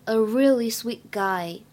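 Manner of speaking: slow with the t of "sweet" unreleased into "guy"; lost plosion. Shown as a demonstration. Teacher shows the t of "sweet" not released. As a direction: mouth the t in "sweet" and glide into "guy". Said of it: "有完全失去爆破的现象".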